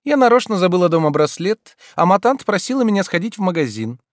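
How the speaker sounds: high, pleased with herself; proud. A narrator's reading. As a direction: boast about her trick. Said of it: "прибавила она с гордостью". (с гордостью)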